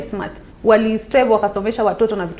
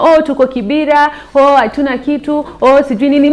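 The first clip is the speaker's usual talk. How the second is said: higher, louder whiny mock of excuses; mocking complaint; 6 semitones higher, 7 dB louder than usual. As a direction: mimic the girls' excuses with a sneer. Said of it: "watu wanasema".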